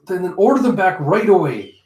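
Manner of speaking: shocked queen ordering soldiers back; urgent demand. Acted. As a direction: stammer then command.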